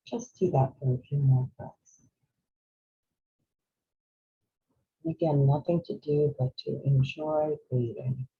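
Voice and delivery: unhurried guiding voice with long pauses; guided meditation. Real, not acted. Host guiding workshop attendees through breathing, calm meditation voice. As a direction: ease them gently through each breath.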